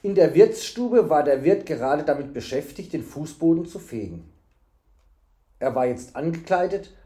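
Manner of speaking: measured storybook reading; story narration. A narrator's reading. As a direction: narrate the tale evenly.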